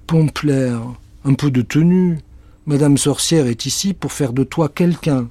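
a hint of a stern girl; scolding girl. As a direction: tell the cat to behave.

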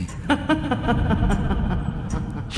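ricanement aigu et haché; ricanement de sorcière. Acted. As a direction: ricane comme une sorcière. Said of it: "se mit à ricaner". (ricanement de sorcière)

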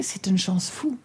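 soft unvoiced whisper. Real, not acted. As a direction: breathe it out as a secret. Grateful aside about their luck.

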